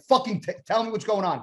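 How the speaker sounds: high-pitched exasperated demand; finally snapping. Retold or imitated. Bodybuilder pressing his stalling friend for the news, exasperated. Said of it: "I finally snapped".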